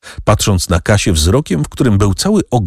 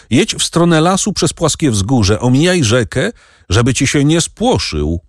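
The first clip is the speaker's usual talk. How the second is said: calling out; 7 semitones higher than usual. A narrator's reading. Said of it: "Andrzej zawołał".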